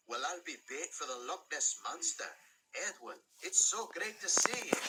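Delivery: put-on delighted Scottish engine greeting an old friend; Scottish engine Douglas. Douglas voiced in story.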